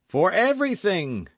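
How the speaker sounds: high, loud eager cry; fervent lover's cry, high and loud; ardent cry. Acted. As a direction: throw the vow out loud and high. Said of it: "cried D'Artagnan".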